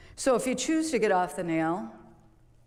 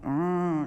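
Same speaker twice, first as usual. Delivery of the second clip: long whining growl, imitated; imitated dog whine. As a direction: moan like a dog in discomfort. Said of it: "if the dog is whining or growling".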